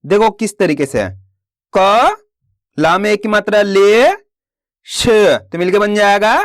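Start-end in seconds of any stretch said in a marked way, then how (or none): 1.7-6.3 slow syllable-by-syllable reading. Shown as a demonstration. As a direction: sound out each syllable slowly, then blend. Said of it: "मैं किस तरीके से एक एक अक्षर का उच्चारण करके इनको पढ़ रहा हूं".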